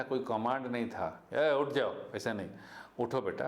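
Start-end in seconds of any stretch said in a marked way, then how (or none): 1.3-1.9 a touch of a bossy order; mock stern command; harsh command. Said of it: "कोई धमकी नहीं था". 3.0-3.5 lightly voiced kind request; loving teacher asking her to stand; gentle coaxing. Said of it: "एकदम प्यार से".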